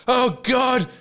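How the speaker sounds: high, loud, laughing panic; panicked. Retold or imitated. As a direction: blurt it out in a sudden panic. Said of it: "I was like".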